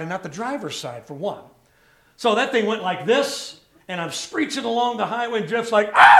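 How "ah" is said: short mock scream of alarm; brief hammed-up scream; imitated scream. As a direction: yelp like a panicked passenger. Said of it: "He's screaming".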